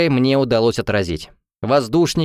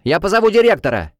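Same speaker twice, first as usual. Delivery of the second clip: high, alarmed threat; young waiter's shout; 8 semitones higher, 4 dB louder than usual. A narrator's reading. Young waiter threatens the brawlers, shouting. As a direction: cry out a warning. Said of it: "закричал молодой парнишка-официант".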